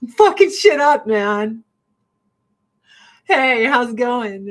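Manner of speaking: the cat proudly announcing the mess he's made; voicing the cat. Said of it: "he's like".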